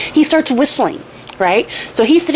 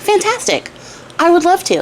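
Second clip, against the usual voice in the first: eager tailor; 6 semitones higher than usual. Retold or imitated. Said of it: "And the tailor's like".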